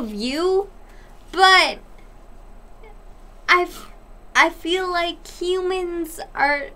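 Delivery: talking through hiccups. Real, not acted. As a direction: hiccups breaking the flow. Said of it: "shut up. The fuck about the hiccups".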